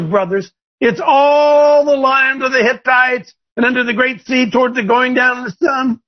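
high, pushy voice of God urging Joshua on; God as a brash coach, rising high at the end; preacher voicing God, high and emphatic; the Lord speaking. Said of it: "the Lord says".

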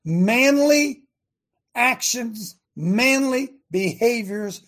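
high, loud, slow praise of manliness; loud, slow emphasis; loud emphatic list. Real, not acted. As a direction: punch out each word. Preacher extolling masculinity.

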